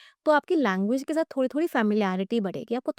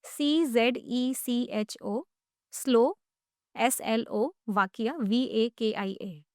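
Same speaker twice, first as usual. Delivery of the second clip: slow spelling in separate pieces; broken into chunks; much slower than usual. Shown as a demonstration. Teacher breaks down a country name, slow chunked spelling. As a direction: give each chunk, then its letters slowly. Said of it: "इसको भी break करते हैं ना".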